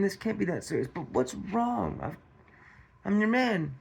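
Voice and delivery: high-pitched, soft worried reassurance; concerned partner. Acted. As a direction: coax an upset wife to open up. Acting partner's worried, reassuring thoughts.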